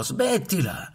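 urlando. A narrator's reading. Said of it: "Mamma anatra urlò".

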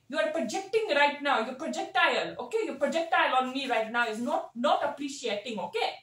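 put-on thick South Asian auntie accent, scolding and gossipy. Community elder auntie lecturing the chat, in a South Asian accent.

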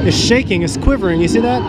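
excited. Acted. Dinosaur toy comes alive.

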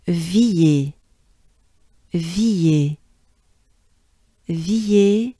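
"Villiers" slowly, both sounds stretched; slow teaching take of "Villiers"; drawn-out syllables. Shown as a demonstration. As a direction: stretch out "Villiers" for learners to copy. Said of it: "shortened and faster, if you will".

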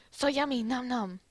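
a light put-on Chinese accent, nom nom; mild Chinese accent, savouring food. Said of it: "that was still in the accent".

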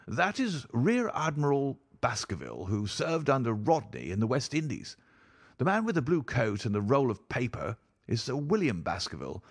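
lightly voiced baronet showing off family portraits; baronet host. Baronet naming his ancestors for guests, lightly animated.

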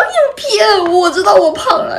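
high, loud comic wail; mock tearful protest. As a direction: retell your own whining accusation. Retold wailing protest to family. (夸张复述带哭腔的抗议)

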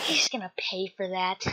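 understated vengeful aside; muttered vow. Acted. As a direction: grumble revenge under your breath. Vows revenge, first take.

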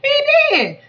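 high, laughing through the words; laughing squeal. Real, not acted. Cracking up about the host in the dark.

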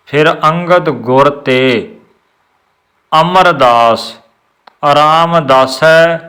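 ਗੁਰ ਤੇ ਤੋਂ ਬਾਅਦ ਵਿਸ਼ਰਾਮ; pause after gur te. Shown as a demonstration. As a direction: break the phrase after ਤੇ. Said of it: "ਗੁਰ ਤੇ ਵਿਸ਼ਰਾਮ ਲਾਉਣਾ".

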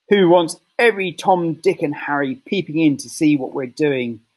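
put-on a touch of a scoffing old man; lightly voiced grumbling husband; grumpy old man. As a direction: huff it out with disdain. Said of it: "Mister Twit had said".

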